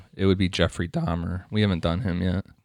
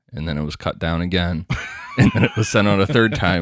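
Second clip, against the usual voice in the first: exasperated; 3 dB louder than usual. Real, not acted. Exasperated recap, laughing and shouting.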